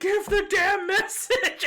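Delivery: high, loud mock yell; impatient shout. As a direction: yell at him to get on with it. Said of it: "Everyone's like".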